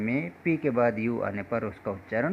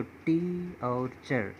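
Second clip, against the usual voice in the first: "टी", pause, then "चर" as separate syllables; syllable split; 6 dB quieter, much slower than usual. Shown as a demonstration. Teacher splitting teacher into two readable parts, syllable by syllable. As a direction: read "टी" और "चर" apart, drawing out "टी". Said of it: "यहाँ पर दो अलग-अलग हम पढ़ पाते हैं".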